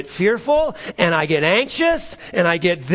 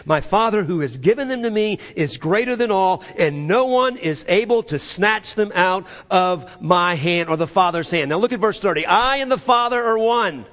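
forceful preaching, raised pitch; 4 semitones higher, 3 dB louder than usual. Real, not acted. Preacher reading Jesus's words to the church, forceful. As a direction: read the verse out with force.

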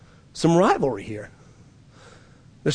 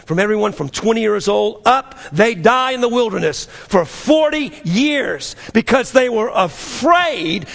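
rising preaching; 4 semitones higher than usual. Real, not acted. Preacher pressing the church, rising to a shout. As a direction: build the warning up to a shout.

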